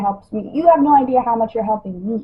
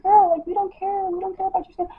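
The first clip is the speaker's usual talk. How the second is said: higher, lightly voiced dismissive friend; mimicking her friends; 8 semitones higher, 6 dB quieter, faster than usual. Friends brushing off her skin worries, mock dismissive. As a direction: brush it off like a careless girlfriend. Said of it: "but sometimes they're like".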